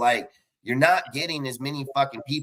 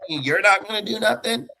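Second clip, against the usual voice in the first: pitched way up, mocking; mocking high voice; 8 semitones higher than usual. Mocking the commissioner in a high whiny voice. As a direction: sneer it in a high mock voice.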